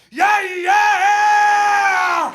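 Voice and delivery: loud, high eager yes; overly excited. Retold or imitated. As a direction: blurt it far too eagerly. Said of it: "overly excited or overly enthusiastic".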